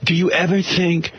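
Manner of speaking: slow, lightly voiced effeminate plea; a hint of a shy, longing Artie; mock effeminate Artie. Host imitates Artie asking George for love, slow and mock tender. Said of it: "He goes".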